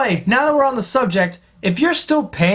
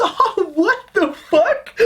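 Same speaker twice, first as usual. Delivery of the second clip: much higher, slow, put-on squeal of disbelief; mock disbelief; 10 semitones higher, slower than usual. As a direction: squeal it out like a baffled heckler. His mocking reaction.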